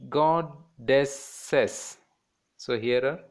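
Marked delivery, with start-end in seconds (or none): 0.1-2.0 "goddesses" split as god-des-ses; three spaced beats on "goddesses"; three separate syllables. Shown as a demonstration. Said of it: "there are three syllables".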